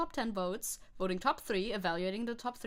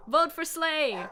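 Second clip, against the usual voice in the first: loud, slow rallying shout; loud, slow call to the crowd; 5 semitones higher, 7 dB louder, slower than usual. Real, not acted. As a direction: drag it out like a campaign chant. Campaigning to chat, calling out.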